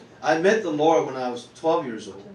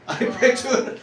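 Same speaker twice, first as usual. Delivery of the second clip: mock over-eager praying; 9 semitones higher, 5 dB louder, slower than usual. Reenacts praying too hard again.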